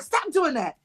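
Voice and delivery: scolding mom. Retold or imitated. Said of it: "she's like".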